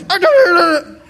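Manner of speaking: retold irritated parent; mock snapping dad. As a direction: cut the child off crossly. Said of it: "I was".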